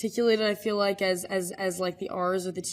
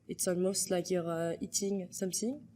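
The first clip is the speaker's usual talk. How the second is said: French-accented English; French accent, th as s in "something"; 5 dB quieter than usual. Shown as a demonstration. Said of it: "doing it in a French accent".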